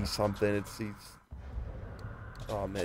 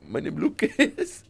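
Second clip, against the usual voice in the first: high, slow, broken-English Latino caricature; mock Latino accent; 11 semitones higher, slower than usual. Scammer introducing himself, mock Latino accent. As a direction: drawl it in fake Latino. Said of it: "why do you sound Latino".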